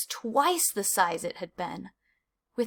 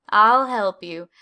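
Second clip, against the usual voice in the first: slow and louder, openly eager; eager offer; 9 dB louder, slower than usual. A narrator's reading. Desmond to Clayton, promising help, slow and loud. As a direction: offer your help with gusto.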